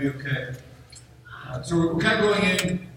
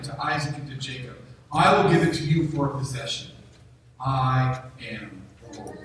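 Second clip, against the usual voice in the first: solemn scripture reading. Acted. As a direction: proclaim God's words to Moses with gravity. Reads Exodus six aloud.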